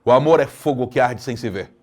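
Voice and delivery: poetry recital; declaimed. Shown as a demonstration. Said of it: "Aqui eu tenho que declamar".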